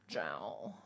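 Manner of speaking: breathy whispered aside. Retold or imitated. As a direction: drop to a voiceless whisper. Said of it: "I'm like".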